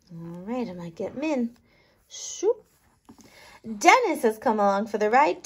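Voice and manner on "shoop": high little shoop sound; a quick squeaky pickup noise; playful pickup whoosh. Acted.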